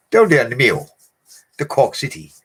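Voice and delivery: high, loud mock Irish accent on Cork. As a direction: tease the Cork lads in a hammed-up Irish voice. Teasing Irish put-on.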